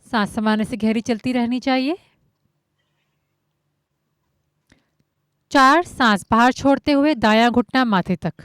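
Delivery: measured count-led cueing with long pauses; yoga instruction. Acted. Yoga teacher guiding students breath by breath, measured instruction. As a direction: call out each movement evenly, step by step.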